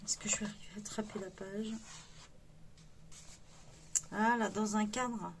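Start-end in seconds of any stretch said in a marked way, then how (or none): 0.1-1.7 quick unvoiced whisper to herself; whispered aside. Real, not acted. Struggling with the book, she whispers to herself quickly. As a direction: whisper it fast while reaching for the page. Muttering while turning the page.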